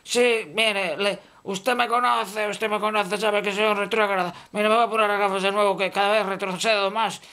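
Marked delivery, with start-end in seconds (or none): none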